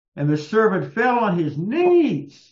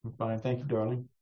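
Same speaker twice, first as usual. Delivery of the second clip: eating while talking; 5 semitones lower, 3 dB quieter, faster than usual. Real, not acted. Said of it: "I'm eating some rice".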